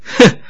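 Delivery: a short, dismissive "hmph"; scornful snort. A narrator's reading. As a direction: snort curtly in disdain. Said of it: "那尼姑哼了一声说". (轻蔑地哼一声)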